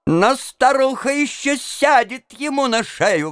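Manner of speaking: high-pitched excited outburst; exclaiming. A narrator's reading. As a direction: call it out high and heated. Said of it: "воскликнул регистратор Хейрбранд". (взволнованный возглас)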